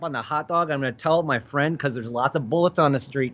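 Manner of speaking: mock-indignant Chicago local; comic Chicago tough talk; Chicago accent. Shown as a demonstration. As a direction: rant in a broad Chicago accent. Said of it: "that's what Chicago's like".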